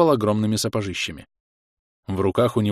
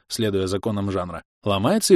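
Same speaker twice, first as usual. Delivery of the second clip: ordinary delivery, nothing marked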